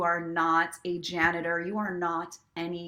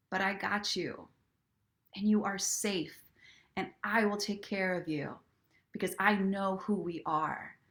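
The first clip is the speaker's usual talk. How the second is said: tender self-talk. Shown as a demonstration. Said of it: "I would put my hands on my heart and I would say".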